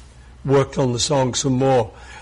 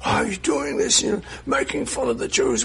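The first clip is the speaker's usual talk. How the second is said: retold furious caller; 9 semitones higher, 4 dB quieter than usual. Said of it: "he's furious".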